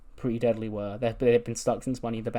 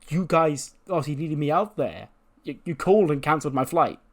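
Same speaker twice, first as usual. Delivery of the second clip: mock accusing; 4 semitones higher than usual. Retold accusation in argument.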